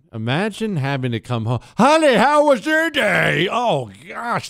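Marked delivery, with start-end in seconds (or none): 1.7-3.4 shrill, very high, loud voice. Imagining a spouse greeting her husband at home: imitating Governor Hochul's voice. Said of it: "Can you imagine being married to a voice like that?".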